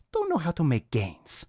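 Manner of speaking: lightly voiced Viking mocking Christians. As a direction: finish the boast in a mock Viking voice. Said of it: "All right, enough of that".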